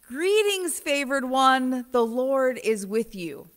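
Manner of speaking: just say it as the angel; plainer angel greeting. Retold or imitated. Retelling the angel's words to Mary, simply. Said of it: "the angel says".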